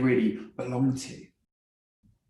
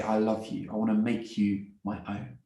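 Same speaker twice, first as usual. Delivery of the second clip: tag; 4 semitones lower, 5 dB quieter than usual. Acted. God speaking love to an orphan.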